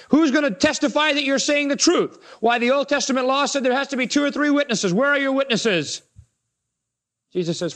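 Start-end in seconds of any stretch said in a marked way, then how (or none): 0.1-6.0 raised, higher challenging voice; a hint of a sneering accuser; indignant Pharisees. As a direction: demand his witnesses, affronted.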